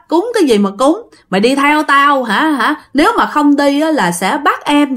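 mock the ghost's scolding lightly; retold ghost scolding. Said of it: "ổng nói vậy đó". (nhại lại lời ma chửi nhẹ)

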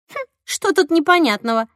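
amazed. Acted. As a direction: sound baffled that she doesn't get it. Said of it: "изумилась она".

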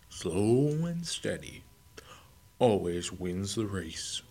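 slow, breathy unhurried drawl; meandering pace. Acted. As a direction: savor every word like the tortoise. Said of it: "in his meandering pace".

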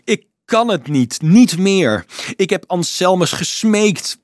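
high, loud desperate protest; crying out. A narrator's reading. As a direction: pour it out as if at breaking point. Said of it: "riep de monnik".

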